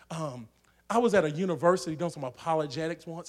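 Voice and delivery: ordinary delivery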